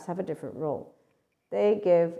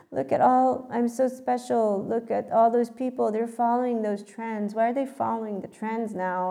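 high, loud put-on indignation; hammed-up "special one" looking down on others; mock self-important seeker; 5 semitones higher, 4 dB louder than usual. Mimicking people who feel so special about trends, mock self-important seeker. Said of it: "when people are in this mode".

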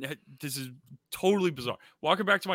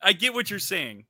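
emphatic; 3 semitones higher than usual. Real, not acted. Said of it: "repeated quieter".

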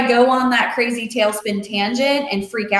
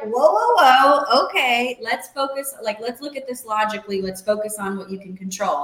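calming coach. Retold or imitated. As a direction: settle a panicking client down. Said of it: "And she was like".

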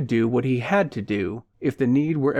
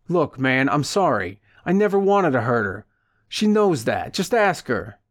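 frightened plea; 2 semitones higher than usual. Acted. Frightened man pleading.

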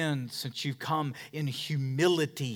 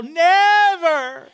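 put-on higher, louder childish yell; mock toddler yell; 10 dB louder than usual. Pastor imitating his toddler son's tantrum yell. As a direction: wail it like a tantrum. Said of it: "just yell".

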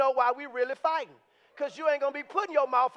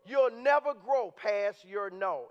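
drawn out, sinking lower; slower still; 3 semitones lower, slower than usual. Shown as a demonstration. Repeating his key line to the church, slower and heavier. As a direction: drag it out for weight. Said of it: "repeated key line slower".

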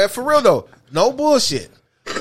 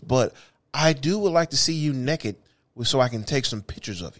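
mock polite reply; 8 semitones lower, 8 dB quieter than usual. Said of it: "Bitch, I am not in the doctor's office".

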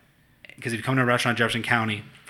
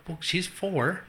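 laughing mock reply; 7 semitones higher, 5 dB quieter, much slower than usual.

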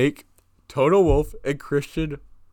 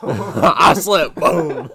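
mock innocent excuse; 4 semitones higher, 7 dB louder, much slower than usual. Zach faking an accident.

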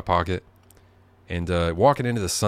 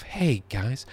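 imitating Joe Biden to the guys, hushed; Joe Biden impression; 5 semitones higher, much slower than usual. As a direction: do a gentle Joe Biden "come on". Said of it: "doing Joe Biden".

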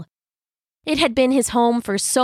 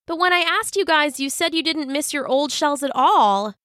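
higher, lightly voiced questioning crab; puzzled Jasper character; 7 semitones higher than usual. A narrator's reading. Embarrassed crab challenging his friends about old shells, mildly puzzled. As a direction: voice a mildly confused story character, pitched up.

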